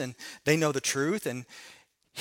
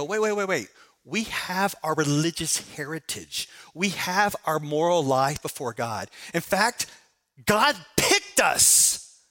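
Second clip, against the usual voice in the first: mock indignant pushback. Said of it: "They may push back and go".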